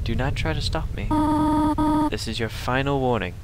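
a hint of a stern mother; Toriel voice. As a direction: read it like a gentle but firm guardian. Reads Toriel's lines in voice.

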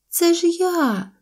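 high, drawn-out little voice; baby mammoth. A narrator's reading. Baby mammoth to unrecognising mother, high drawn-out voice. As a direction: plead to be known, high and slow. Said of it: "сказало мамонтеня".

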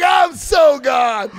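loud, high, slow declaration; drawn-out comic exclamation; emphatic retold refusal. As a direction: holler it, stretching each word.

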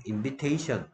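"invitation" with "vi" said like "vee"; "invitation", no eye sound in "vi"; short I sound. Shown as a demonstration. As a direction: say "invitation" as in-vi-TAY-shun. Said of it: "I 발음이 E 발음으로 하고".

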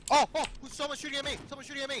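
hit hard crying out. Real, not acted. Being shot at, crying out.

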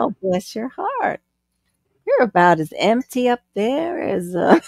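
mock sweet insult. Shown as a demonstration. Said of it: "a little jab".

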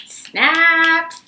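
excited cheer. Real, not acted. Teacher cheering the poem she just read, excited. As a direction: celebrate the poem with a bright shout. Applauding the poem's end.

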